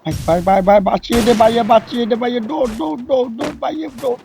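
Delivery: urgent, pleading cries for help; panicked calling. Real, not acted. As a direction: beg your teammate to save you. Panicked teammate calls during fight.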